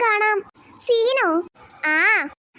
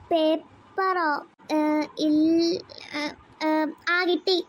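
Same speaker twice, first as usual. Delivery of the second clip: nervous stall; 3 semitones lower, 4 dB quieter, much slower than usual. Acted. Child caught, stalling.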